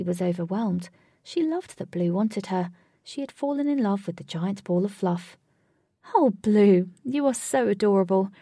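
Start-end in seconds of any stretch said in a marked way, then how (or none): 6.1-8.3 loud, gushing fondness; adoring. A narrator's reading. Katy has fallen in love with the cat, gushing. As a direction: gush over a beloved pet.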